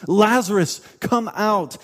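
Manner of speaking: calling out with a firm push on the name; loud calling voice. Retold or imitated. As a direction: summon him loudly, as a preacher quoting. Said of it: "calling out in a loud voice".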